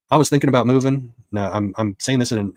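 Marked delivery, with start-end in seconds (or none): 0.1-1.1 higher-pitched imitation Southern accent. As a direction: quote the juror in a put-on Southern accent. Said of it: "in a Southern accent".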